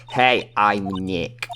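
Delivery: slow, drawn-out call. Acted. Nick testing the camera's mic, calling out slowly. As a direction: say it big and stretched for the mic. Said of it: "Maybe I'm not saying it loud enough".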